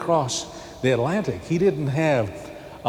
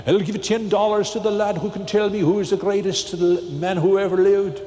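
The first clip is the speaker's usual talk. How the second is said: a light, slightly raised Irish brogue; Irish accent; 6 semitones higher, 3 dB louder than usual. Retold or imitated. Irish priest teacher making an offer to his class, light Irish accent. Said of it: "Maybe I can have the accent".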